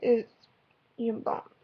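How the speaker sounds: hiccuping mid-sentence; fighting the hiccups. Real, not acted. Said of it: "I got the hiccups".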